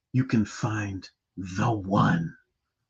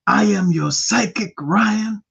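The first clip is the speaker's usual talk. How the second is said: mock psychic persona; 3 semitones higher than usual. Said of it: "have a completely different personality today".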